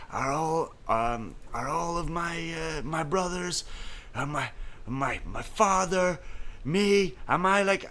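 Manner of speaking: high, slow, halting put-on voice; mock reporter question. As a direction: stumble through a nervous question. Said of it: "he's like".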